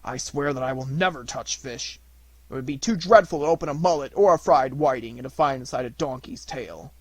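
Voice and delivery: a hint of a horrified man swearing off fish; horrified purchaser. Purchaser figure voiced.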